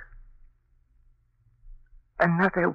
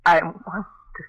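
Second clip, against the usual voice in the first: slow, louder, straining fear; strangled terror; 2 semitones higher, 3 dB louder than usual. Acted. Wife watches the killing with Chuck, strangled terror. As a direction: force it out through terror.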